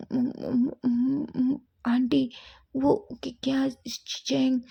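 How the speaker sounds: high, broken stutter, half whispered; Wing faces the furious mother, stammering; terrified stammer. Acted. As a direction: stammer it out in fear. Wing stammering before angry mother.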